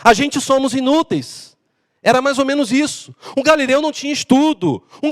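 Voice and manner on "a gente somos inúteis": slow mock uneducated voice; drawn-out unschooled grammar, played for comedy; illiterate speaker. Shown as a demonstration. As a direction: lightly imitate an unschooled rustic. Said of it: "um sotaque de alguém praticamente".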